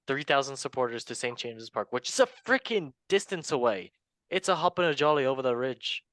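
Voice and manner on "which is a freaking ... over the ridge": lightly attempted Irish accent, higher pitched; jokey lilt meant as Irish. Host joking about the long distance, playful attempt at an Irish accent. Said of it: "that was Irish. Sorry, my Mary Poppins took over".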